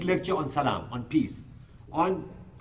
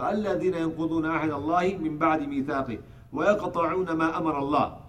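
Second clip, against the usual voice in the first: rapid chanted Arabic recitation; flowing Quranic recitation, quick and even; much faster than usual. Acted. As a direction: recite the verse fast, in one breath. Quran recitation inside sermon.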